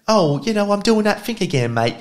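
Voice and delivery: mock London accent with a "mate" on the end; Russell Brand London accent. Quoting Russell Brand to viewers in a high mock London accent. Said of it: "I can't do that bloody accent".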